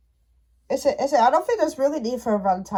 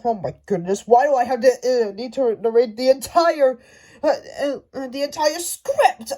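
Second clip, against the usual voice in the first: whiny narrator. Pretend. Pretend narrator moaning about narrating every line, mock crying. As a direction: complain like an overworked narrator close to tears. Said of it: "and he'd be like".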